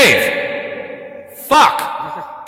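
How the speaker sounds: real yell to get someone's attention; exasperated shout. Real, not acted. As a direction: shout it sharply, fed up. Yells at Dave to stop phoning.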